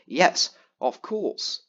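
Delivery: drawn-out, slow sarcastic yes again; quoting the friend's edited reply, slow and mocking. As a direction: drag it out like reading a fake chat edit. Same edited reply quoted again.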